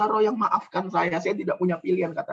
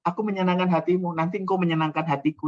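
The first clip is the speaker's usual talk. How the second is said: mock bargaining; faster than usual. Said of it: "Bukan berarti".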